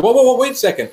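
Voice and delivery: alarmed protest. Retold or imitated. Crying patient to doctor walking out, alarmed protest. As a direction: imitate someone halting a person who's leaving.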